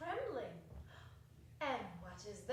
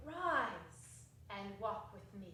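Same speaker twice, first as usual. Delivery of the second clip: slow solemn spirit; 4 semitones lower, slower than usual. Acted. Spirit commands gently.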